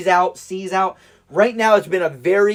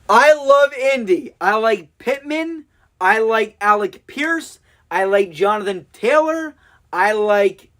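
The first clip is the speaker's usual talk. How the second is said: gushing fan; 3 semitones higher, slower than usual. Real, not acted. Cheering his team's players.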